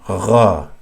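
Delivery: gha with a gargled scrape at the top of the throat; gargle-like gha. Shown as a demonstration. Teacher likening it to gargling, throaty gha. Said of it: "it's the same".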